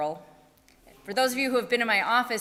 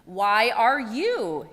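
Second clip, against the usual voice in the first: frustrated; 5 dB louder, much slower than usual. Acted. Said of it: "got a little bit frustrated".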